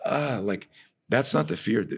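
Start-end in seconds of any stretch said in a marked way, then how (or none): 0.1-0.4 high-pitched little "ah" of fright; mock fearful cry. Trainer mimics what people think fear is, mock fright. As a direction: imitate obvious fear, without real volume. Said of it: "people think fear is like".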